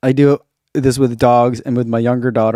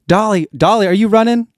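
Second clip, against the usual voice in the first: pet voice; 6 semitones higher, 3 dB louder than usual. Pretend. Shouting out a viewer's dog.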